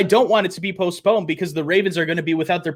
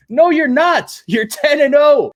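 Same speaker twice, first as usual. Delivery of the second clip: higher, louder snap back; indignant retort; 8 semitones higher, 5 dB louder than usual. Acted. Vlogger snapping back at the team's underdog claim, loud. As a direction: cut him off loudly.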